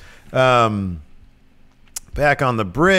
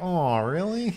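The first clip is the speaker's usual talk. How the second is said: mock flattered; 6 semitones higher, 4 dB quieter than usual. Crusher falls for the coddling.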